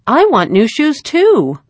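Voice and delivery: little sister piping up at the table; piping little girl. A narrator's reading. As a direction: chirp it like a small child wanting the same. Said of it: "piped up little Arvella".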